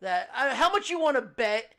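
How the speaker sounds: distant mic, like another room. Real, not acted. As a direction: sound far off in the next room. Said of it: "sound like you're in another room".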